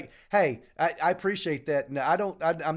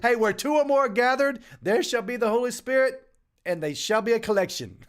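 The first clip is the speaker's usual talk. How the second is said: higher, louder mock sermon; playful hammed-up scripture; mock preacher; 6 semitones higher, 4 dB louder than usual. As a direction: intone it like a preacher passing the plate.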